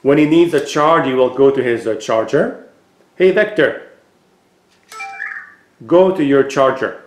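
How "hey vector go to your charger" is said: raised, higher call on hey; voice command. Real, not acted. Owner gives his robot a clear spoken command.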